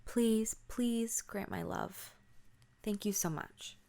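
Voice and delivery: earnest little plea to a doll; praying. Acted. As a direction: plead slowly, then give thanks. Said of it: "prays to the doll".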